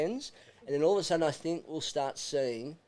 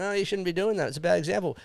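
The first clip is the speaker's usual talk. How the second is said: higher-pitched mock outrage; mock whining complaint; 4 semitones higher than usual. Imitating critics of a cricket player's antics, mock whining. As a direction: whinge like an offended scold. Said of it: "we're crying".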